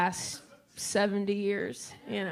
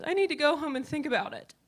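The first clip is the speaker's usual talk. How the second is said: mom voice; 6 semitones higher, faster than usual. Retold or imitated.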